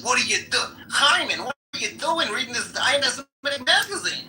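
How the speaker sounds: put-on high, agitated Jewish accent; Jewish joke accent. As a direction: scold in a hammed-up Jewish accent. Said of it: "here's my Jewish joke".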